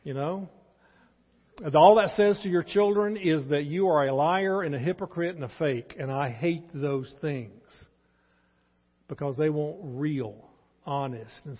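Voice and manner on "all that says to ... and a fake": forceful preaching. Real, not acted.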